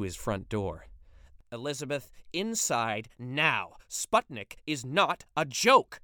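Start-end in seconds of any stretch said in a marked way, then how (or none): 1.5-6.0 slow, stern, rising to loud on the last line; a furious father ordering his daughter indoors; angry father. Acted. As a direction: hold the anger in, then let it out. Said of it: "His blood was boiling".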